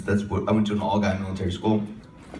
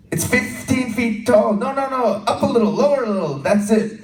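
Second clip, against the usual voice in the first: director guiding aim; 12 semitones higher, 6 dB louder than usual. Retold or imitated. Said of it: "he would just go".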